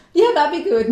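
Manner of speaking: high, loud laughter breaking into the words; laughing reply. Real, not acted. Wife laughs along at the husband's bath-video joke, laughing. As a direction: giggle out the yes.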